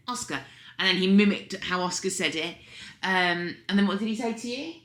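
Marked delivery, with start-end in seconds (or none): 0.1-0.4 put-on Oscar's name in an English accent, higher. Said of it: "in his English accent".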